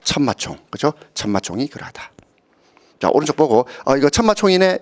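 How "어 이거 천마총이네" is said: pleased recognition. Pretend. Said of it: "이런 느낌 받았으면 좋겠습니다".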